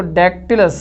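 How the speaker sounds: Dactylus read carefully, weight on its first syllable; stress on first syllable. Shown as a demonstration. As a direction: lean on the opening syllable of Dactylus. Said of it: "ध्यान से पढ़िए इसको". (Dactylus के पहले हिस्से पर ज़ोर)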